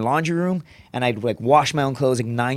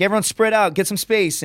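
higher-pitched called-out order; imitated instructor command; 6 semitones higher than usual. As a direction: lightly play an instructor addressing recruits.

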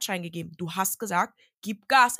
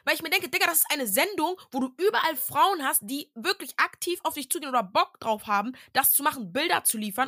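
heated objection; 6 semitones higher than usual. Real, not acted. Arguing with her co-host about the show, raised high and heated. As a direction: pitch jumps up high as she protests the point.

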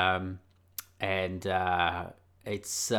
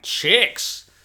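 eager; 9 semitones higher, 7 dB louder than usual. Retold or imitated. Teenage fixation on girls.

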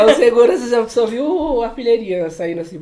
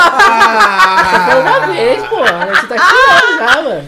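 high, slow laughing complaint; laughing mock scold; 8 semitones higher, 10 dB louder, slower than usual. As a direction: scold him while cracking up.

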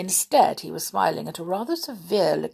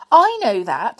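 much louder, higher snap; irritable; 5 semitones higher, 10 dB louder than usual. A narrator's reading. McGonagall snaps at Dumbledore, irritable and loud. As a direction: snap it back, annoyed. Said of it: "said Professor McGonagall irritably".

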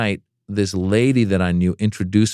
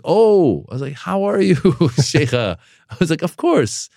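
flustered surprise; 9 semitones higher than usual. Retold or imitated. Embarrassed at princess.

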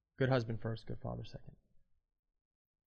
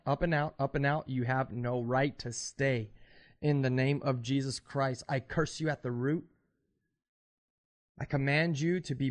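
forceful deliverance preaching; laying a curse. Acted. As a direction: command the spirit out with authority. Deliverance prayer, casting out spirits.

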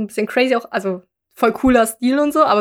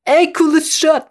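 mock casual waiter; 5 semitones higher, slower than usual. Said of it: "Nein, Spaß".

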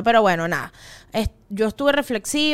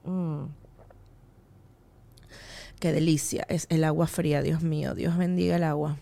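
relieved after a drink; 7 semitones lower, 7 dB quieter than usual. Real, not acted. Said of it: "Momento del agua".

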